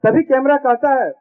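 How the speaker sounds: comic verse recited with each line repeated; sing-song stage reading for a laughing crowd; poem recitation. Acted. Poet reciting a comic poem to the audience, rhythmic stage recitation.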